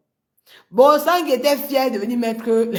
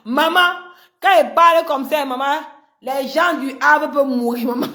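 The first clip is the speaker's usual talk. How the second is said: mocking; 5 semitones higher, 4 dB louder than usual. Real, not acted. Mocks, high and loud.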